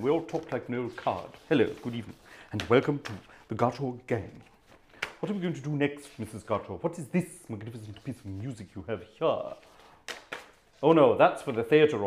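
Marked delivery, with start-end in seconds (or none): 1.5-9.6 put-on posh accent. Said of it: "We're all terribly posh".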